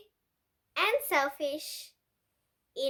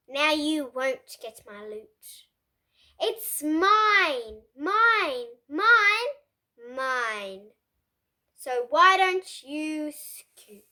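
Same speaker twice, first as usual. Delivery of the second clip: gloating; 3 dB louder, slower than usual. Acted. Pig gloating from his pile.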